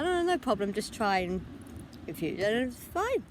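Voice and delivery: high, quick-starting brush-off of worry; reassuring. Retold or imitated. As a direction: imitate a friend hurrying to reassure. Acts friend's quick reassurance.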